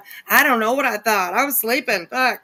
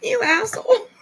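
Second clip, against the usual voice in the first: shout; 5 dB louder than usual. Real, not acted. Startled by a fake snore.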